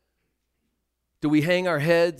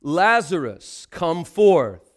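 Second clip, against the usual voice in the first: loud call; 5 dB louder, slower than usual. Acted. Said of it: "he cried out with a loud voice".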